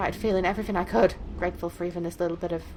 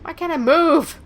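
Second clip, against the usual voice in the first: pained distress; 6 semitones higher, 7 dB louder, slower than usual. Acted. Voices trapped girl in pain.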